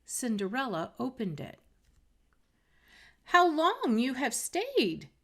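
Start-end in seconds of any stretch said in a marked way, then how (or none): 3.2-5.1 yawning. Acted. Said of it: "said she, yawning".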